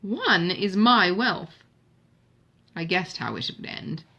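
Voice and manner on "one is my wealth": high, loud mock astonishment with a laugh in it; lightly laughing exclamation, slowing at the end; laughing disbelief. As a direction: tease her sister with amused disbelief. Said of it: "Eleanor laughed".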